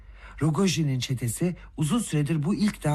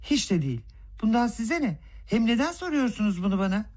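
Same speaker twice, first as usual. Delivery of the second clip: serious, a little puzzled tone; calm, slightly surprised; 7 semitones higher than usual. Acted. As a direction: answer coolly with mild surprise. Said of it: "Sakin, ciddi bir ses tonuyla ve biraz şaşırmış". (sakin, hafif şaşkın ciddi ton)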